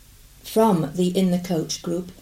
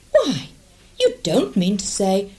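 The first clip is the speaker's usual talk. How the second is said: startled lady voice. Acted. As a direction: squeak it out in alarm.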